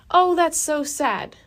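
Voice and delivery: drawn-out, high-pitched fake sympathy; put-on sympathetic voice, stretched out; mock pity. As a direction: coo it slowly and high, imitating insincere concern. Mocking insincere pity of non-vegans.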